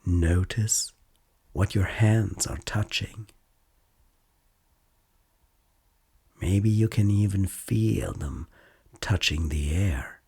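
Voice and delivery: calm, unhurried mindfulness guide with long pauses; guided meditation. Acted. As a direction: gently lead a listener through noticing body and senses.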